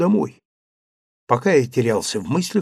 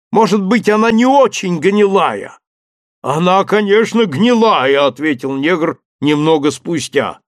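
a hint of the servant Jupiter, higher, calling down; lightly voiced servant up a tree; 5 semitones higher than usual. Servant Jupiter calling down to his master, lightly voiced. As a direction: play the cautious servant calling down.

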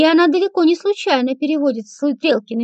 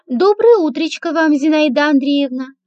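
flattering. Acted. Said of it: "её льстивый голосок".

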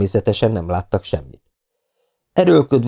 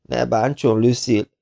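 groaning; 4 semitones higher than usual. Acted. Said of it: "nyögte a megkínzott fiatalember".

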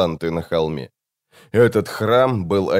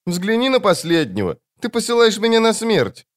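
put-on high, plaintive child voice; Жемчуг, sad; 12 semitones higher than usual. A narrator's reading. Demon doomed by the wizard's order, sad child voice. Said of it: "грустно проговорил Жемчуг".

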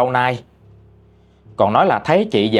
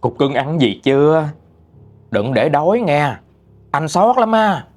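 sweet-talking lover. Acted. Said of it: "ổng xưng anh em ngọt xớt vậy".

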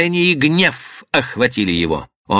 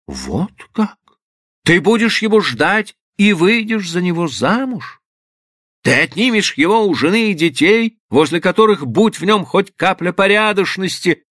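higher, rising indignant tirade; indignant father; 6 semitones higher than usual. Acted. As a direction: berate her with mounting outrage. Father berating daughter in fury.

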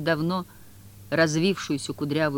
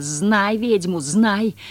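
howling, much louder and higher; witch's fury; 5 semitones higher, 8 dB louder, much slower than usual. A narrator's reading. Margarita howls at the informer, furious witch howl. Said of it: "Шипение разъярённой кошки".

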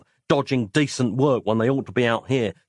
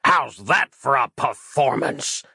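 gloating laugh; 2 semitones higher, slower than usual. Acted. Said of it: "laughed the Randy man".

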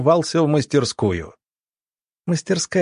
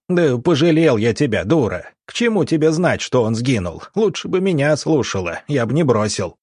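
barked; 3 semitones higher than usual. Acted. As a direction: yell it red-faced. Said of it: "багровее рявкнул".

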